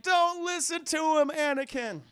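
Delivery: high, loud, urgent mock plea; shouted warning. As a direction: call it out over a struggle. Windu calls warning to Anakin.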